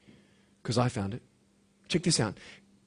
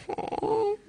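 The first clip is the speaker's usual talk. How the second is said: surprised oh; 7 dB quieter than usual. Retold or imitated. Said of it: "And I'm like".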